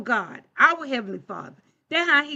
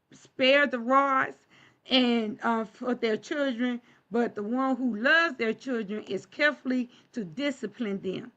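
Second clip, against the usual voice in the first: slow scripture reading. Shown as a demonstration. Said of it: "So when we say".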